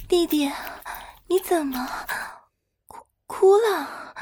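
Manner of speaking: alarmed, slowing down in disbelief; startled concern. Acted. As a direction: caught off guard, suddenly worried. Sister notices brother crying.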